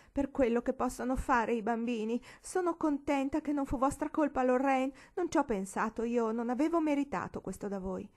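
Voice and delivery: high, wailing self-pity; offended matron's high wail; moaning. Acted. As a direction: moan it, high and aggrieved.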